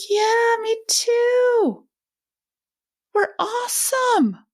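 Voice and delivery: put-on proud little boy. Boy cheering after compromising with mum, high and proud. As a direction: play the child glowing with pride. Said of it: "He's like".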